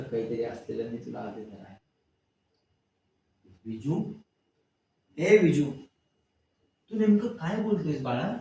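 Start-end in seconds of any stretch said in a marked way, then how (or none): 3.6-8.4 an anxious mother raising her voice; worried call. Acted. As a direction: call out his name loudly, higher, then ask anxiously. Mother worried, calls son.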